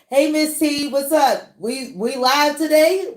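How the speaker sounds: lightly acted eager fan; lightly voiced viewer. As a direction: pitch up for a fan's message. Acts out a viewer's message.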